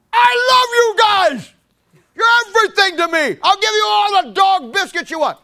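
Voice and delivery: high, loud mock-angry declaration; shouted love. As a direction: yell the loving words like a threat.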